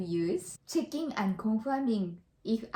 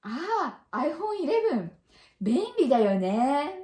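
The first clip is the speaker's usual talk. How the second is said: agreeing remark; 3 semitones higher than usual. Shown as a demonstration. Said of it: "Then we say".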